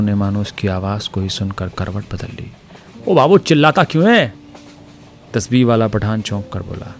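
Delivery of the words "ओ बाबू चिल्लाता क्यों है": startled Pathan. A narrator's reading.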